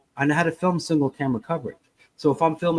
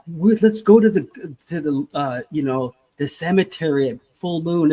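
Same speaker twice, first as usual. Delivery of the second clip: put-on giddy kid; 3 dB louder than usual. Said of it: "you're all giddy and you're like".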